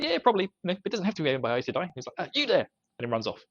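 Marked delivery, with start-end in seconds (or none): 0.0-1.9 mock captain voice. Retold captain's reply. 2.3-2.7 mock call out. Captain calling out.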